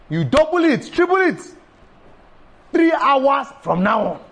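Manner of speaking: building excitement; excited urging. Real, not acted. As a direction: pitch climbing high on double, triple. Preacher urges more prayer.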